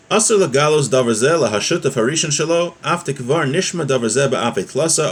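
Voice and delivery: lilting recitation of Hebrew text; text-study reading. Real, not acted. Teacher reading a Hebrew law text to students, lilting recitation. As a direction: read the source text in a rolling, rise-and-fall lilt.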